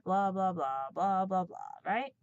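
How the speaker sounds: ordinary talk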